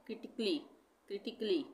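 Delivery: क्रिटिकली said with the A left out; silent A. Shown as a demonstration. Teacher showing learners the silent A, क्रिटिकली without it. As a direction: say क्रिटिकली in three beats, kri-tik-lee. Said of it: "यहाँ पे ए का उच्चारण नहीं होगा".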